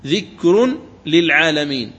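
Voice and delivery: slow ذكر للعالمين with lam doubled. Shown as a demonstration. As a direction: stretch ذكر للعالمين, tanween melted into lam. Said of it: "تنطق براء مضمومة بعدها لام مشددة".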